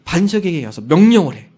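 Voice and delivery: loud, commanding voice of God; God's command. Retold or imitated. God commanding Moses to speak to the rock, loud. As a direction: give the order with authority. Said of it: "명령을 해요".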